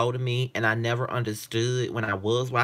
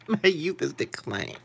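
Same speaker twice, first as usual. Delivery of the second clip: repeated through laughter; laughing; 6 semitones higher than usual. Real, not acted. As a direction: laugh as you say it.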